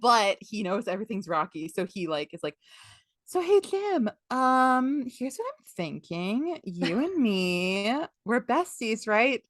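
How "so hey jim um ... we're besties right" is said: drawn-out, wheedling mock friendliness; butter him up with hesitant, stretched words; comic fake-chummy pitch; Long John Silver. Silver cajoling Jim, acted.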